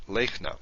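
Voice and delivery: "Lechna" stressed at the beginning; "Lechna" as two syllables, the first one stressed. Shown as a demonstration. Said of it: "the stress is at the beginning".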